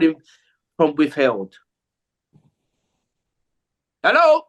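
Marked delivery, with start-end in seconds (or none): 4.0-4.4 imitating phone answer. Voicing the man answering phone.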